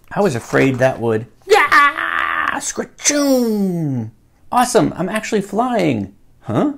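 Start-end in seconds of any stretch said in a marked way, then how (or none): 1.5-2.6 high roaring shout; cartoon creature shriek; monster roar. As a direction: roar like a startled beast. Monster sound effect.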